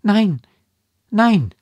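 loud, high outburst; two emphatic falling exclamations; vehement denial. A narrator's reading. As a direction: cry out in flat contradiction. Daughter vehemently contradicts her mother.

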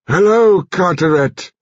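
high, loud and forceful greeting; sick old man summoning his strength to greet the Colonel loudly; loud and clear. A narrator's reading. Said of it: "so loudly and clearly".

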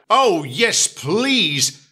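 delighted Edward. Acted.

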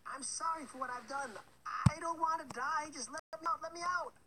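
high, loud panicked pleading; begging. A narrator's reading. Trapped baker woman begs Hansel, panicking. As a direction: beg for your life.

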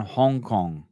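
faint mock Asian accent. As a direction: slip lightly into an Asian accent. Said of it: "said that with an Asian accent".

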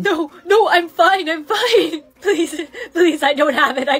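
loud denial with laughs leaking through; denial cracking into laughs. Acted. Girl insists to her boyfriend she's fine, laughing through the words. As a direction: fight back the giggles while insisting you're fine.

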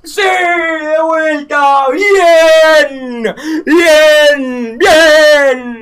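high, loud, cracking cheers of triumph; real ecstatic celebration; victory shout. Real, not acted. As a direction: yell it like you just won. Wins the round, celebrates.

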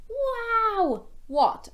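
high, loud amazed wow; big high storytime wow. Acted. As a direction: gasp it out for the kids. Marvelling for children.

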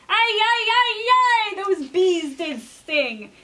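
king stung by bees, crying out; king cries out. Acted. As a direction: yelp as the bees sting. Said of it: "cried the king".

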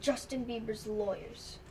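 slow, audible repeat at normal volume; speaking up. Acted. Partner repeating who called after being told, speaking up. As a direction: repeat it slowly so it can be heard. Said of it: "Speak up!".

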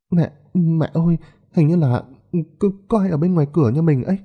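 put-on a terrified boy waking his mother; frightened child. A narrator's reading. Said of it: "cả người run lên bần bật". (đứa bé sợ hãi gọi mẹ, giọng cao và gấp)

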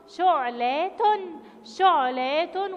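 شعلة said loudly with a halt on ع; loud, measured teaching take of شعلة; stop on the ayn. Shown as a demonstration. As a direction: land on the ع of شعلة before "la-tun". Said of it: "وقفت عند حرف العين لأنه حرف ساكن".

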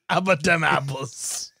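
put-on punchline in a Boston accent. Finishing the apples bit, Boston accent. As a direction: land it like a Bostonian. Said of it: "so good at a Boston accent".

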